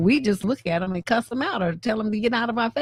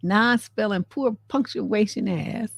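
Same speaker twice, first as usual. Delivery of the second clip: scornful repeat; slower than usual. Acted. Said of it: "that tone of voice is exactly how I meant it".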